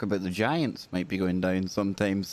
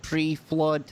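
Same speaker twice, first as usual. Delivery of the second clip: mock surprise; 5 semitones higher than usual. Mock astonished host.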